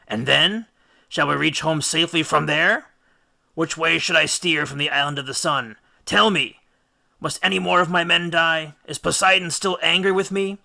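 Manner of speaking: Odysseus begging the oracle; pleading Odysseus. A narrator's reading.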